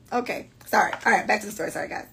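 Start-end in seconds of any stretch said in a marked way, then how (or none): none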